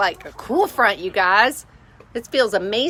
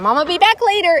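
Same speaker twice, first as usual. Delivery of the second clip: put-on baby talk; 10 semitones higher, 6 dB louder, faster than usual. Pet talk to the animal.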